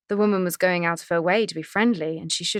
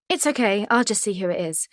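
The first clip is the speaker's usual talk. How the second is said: bright, quick cheerful cover; falsely chirpy wife covering her panic; 3 semitones higher than usual. Acted. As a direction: chirp it out to hide the worry. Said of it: "she announced chirpily".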